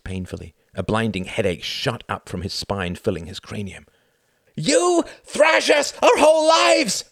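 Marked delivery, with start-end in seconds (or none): 4.6-7.0 slow, high full-force shouting; furious scream. A narrator's reading. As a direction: scream the accusation at your father. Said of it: "screamed Klaus".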